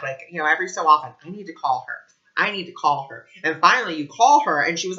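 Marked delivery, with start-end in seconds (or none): 1.2-3.3 calm inner nudge. Retold or imitated. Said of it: "it just keeps on coming back".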